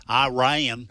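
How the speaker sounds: Iran said the Southern way, "eye-RAN"; Southern pronunciation. Shown as a demonstration. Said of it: "that's the Southern way".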